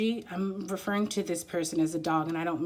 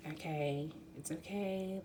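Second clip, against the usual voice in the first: soothing; 8 dB quieter, slower than usual. Retold or imitated. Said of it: "almost like".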